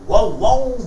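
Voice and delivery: lightly imitated barking; mild dog bark. The dog joins the concert with a mild bark. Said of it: "bellt der Hund".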